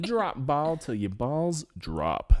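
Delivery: slowed, drawn-out tagline; slow mock slogan. Hosts repeating the slogan, slow and hammed-up. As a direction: savor each word like a cheesy tagline. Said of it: "slogan repeated".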